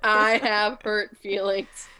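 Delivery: slow, drawn-out mock sadness while laughing; mock sad Betty. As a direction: ham up the fake sorrow. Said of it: "She just says".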